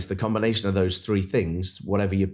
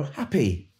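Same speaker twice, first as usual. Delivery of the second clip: much higher, a sing-song answer from the crowd; mock audience answer; 7 semitones higher than usual. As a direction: play the obvious crowd reply. Audience answering the picture game.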